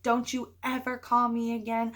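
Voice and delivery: mildly angry, emphatic telling-off; retold anger. Narrator retelling her call to Dan, mildly angry. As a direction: lay down the law with restrained anger. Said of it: "so, so angry and so hurt".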